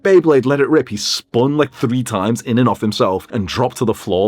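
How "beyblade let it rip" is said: toy catchphrase. Retold or imitated. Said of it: "those toys, like".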